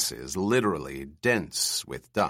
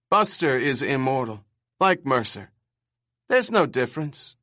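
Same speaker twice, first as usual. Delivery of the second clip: put-on screechy old man; 5 semitones higher, 3 dB louder than usual. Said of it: "his bird screech voice".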